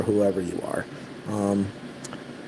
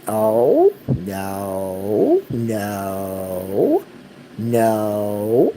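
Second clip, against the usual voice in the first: alarmed "no"; much slower than usual. Real, not acted. Dog misbehaves suddenly.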